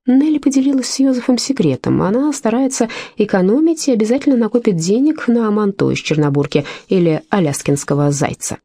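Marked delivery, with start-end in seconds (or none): none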